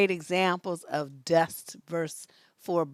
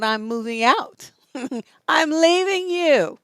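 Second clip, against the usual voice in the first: loud, rising and drawn out on the last line; retold defiant announcement; 7 semitones higher, 7 dB louder than usual. Retelling telling a boyfriend she's leaving, defiant announcement. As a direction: announce it loudly with an amused edge.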